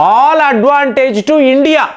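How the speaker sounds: drawn out, every word weighed; each word stretched for effect; slow emphatic punchline. Real, not acted. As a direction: land it slowly, word by word. Punchline summing up the win.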